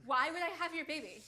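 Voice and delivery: mocking question laughed out; scornful laugh. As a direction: laugh at him cruelly. Wife mocks husband.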